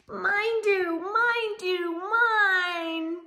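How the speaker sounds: high, loud sing-song chant of mine; high singsong little-one reply; eager little voices. Acted. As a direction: chant it like an excited toddler claiming. Eager answer to story question.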